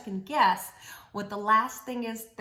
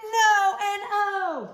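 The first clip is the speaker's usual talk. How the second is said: drawn-out no; 7 semitones higher, 6 dB louder, much slower than usual. Acted. Drawn-out refrain answer.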